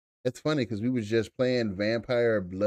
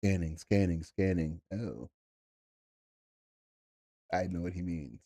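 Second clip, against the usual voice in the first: robotic scanning; 5 semitones lower, 3 dB quieter than usual. Retold or imitated. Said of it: "I was like".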